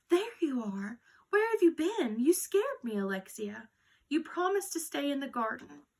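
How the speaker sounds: frightened grandmother, loud and rising high; scared exclaiming. A narrator's reading. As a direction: relief and fright bursting out at the lost child. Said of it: "she exclaimed".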